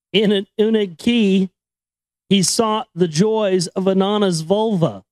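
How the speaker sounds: put-on measured, solemn reading of an old chronicle; story narration. Host reading the Sumerian chronicle to listeners, solemn narration. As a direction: read it like an ancient epic. Reading ancient text aloud.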